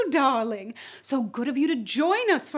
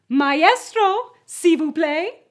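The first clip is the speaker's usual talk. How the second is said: grand announcement; 3 semitones higher, 7 dB louder, slower than usual. Acted. Hostess cues the orchestra.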